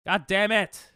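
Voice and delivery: loud frustrated curse; angry outburst. Real, not acted. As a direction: snap it out in anger. Pokemon move goes wrong.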